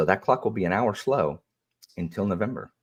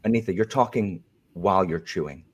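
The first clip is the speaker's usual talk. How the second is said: prim moderator voice. Pretend. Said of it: "if this is the new Alan".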